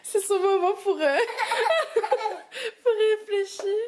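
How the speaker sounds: giggling high through the words; laughing while she explains his corner. Real, not acted. Mother laughing about her toddler's thinking corner, giggling.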